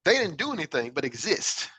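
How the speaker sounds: self-questioning. Retold or imitated. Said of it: "I would ask myself".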